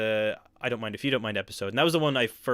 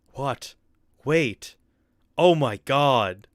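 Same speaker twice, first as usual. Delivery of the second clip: loud, very slow, put-on bad line reading; 2 semitones higher, 6 dB louder than usual. Watching an old film, repeating an actor's line: mocking the film's voice acting. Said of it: "No offense to the voice acting".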